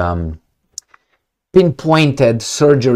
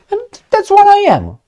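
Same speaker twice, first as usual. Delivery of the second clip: high, put-on thug swagger; squeaky mocking tough-guy voice; mock thug boast; 3 dB louder than usual. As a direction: sneer it out like a proud thug.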